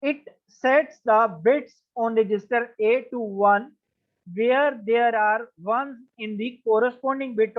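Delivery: slowed down for emphasis; slow and deliberate. Shown as a demonstration. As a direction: read it out slowly and carefully. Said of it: "Kindly read this definition very carefully".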